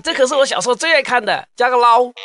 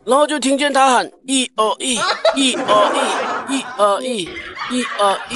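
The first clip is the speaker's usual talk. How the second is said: laughing. Acted. Mimicking silly marching chant laughing.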